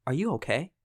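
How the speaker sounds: soft, caring question; softly asking if they're okay; gentle check-in. Shown as a demonstration. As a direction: ask it gently, with concern. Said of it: "what I can say is".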